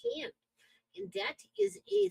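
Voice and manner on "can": elongated A's and E's, northern accent; northern accent with stretched vowels. Shown as a demonstration. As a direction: let the Canadian vowels ring out. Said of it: "you can probably hear it in my voice".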